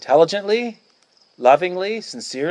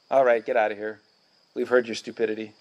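dismissive brush off; 6 semitones lower, 5 dB quieter than usual. Acted. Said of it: "polite brush off".

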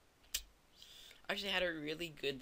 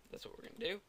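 hiccups; 6 semitones higher, 4 dB quieter, much faster than usual. Real, not acted. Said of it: "if you hear me hiccuping".

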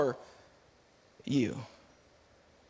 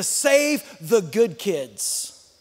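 slow, lower, teasing wrong ending; deliberately wrong punchline, drawn out; mock misquote; 3 semitones lower, much slower than usual. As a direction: drag out save the good kids as a joke. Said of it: "is that what he said?".

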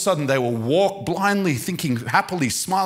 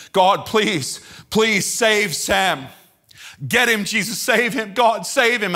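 raised, urgent plea to God; retold weeping prayer; 5 semitones higher, slower than usual. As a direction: beg desperately, acting out a past prayer. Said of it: "I'm weeping".

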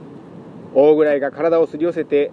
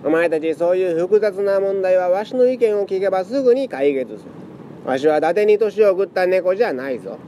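put-on creaky wise old man; 5 semitones higher than usual. Old fortune-teller cat boasts.

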